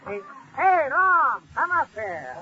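hailing a friend from a distance; calling out. Real, not acted. Calls Ron over from afar.

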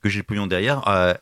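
throat catching, about to cough; hoarse, cough breaking through; coughing fit. Real, not acted. (voix prise par la toux)

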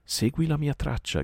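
high, loud shout up to the sky. Acted. Mowgli shouts to Kill while carried off, high loud cry. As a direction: yell it up to the vulture far overhead. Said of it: "gridò Mowgli".

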